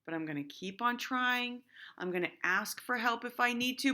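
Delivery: teacher modelling the word yet to her class; calm determined. Shown as a demonstration. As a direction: say it like a kid who won't quit. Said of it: "add that word yet".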